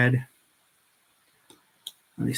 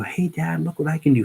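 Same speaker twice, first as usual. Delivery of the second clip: imitating his kid; 7 semitones higher than usual. Voicing his kid showing off.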